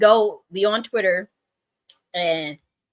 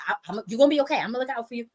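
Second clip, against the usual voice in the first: higher-pitched, mildly exasperated promise; imitated pissed-off reassurance; 5 semitones higher, much faster than usual. Man promising to look out for her, imitated annoyed reassurance. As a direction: reassure her while fed up. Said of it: "this is how he said".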